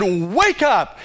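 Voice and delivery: booming dad voice. Retold or imitated. Son imitates his dad preaching in church, booming voice. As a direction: boom it out like a preaching father. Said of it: "booming voice".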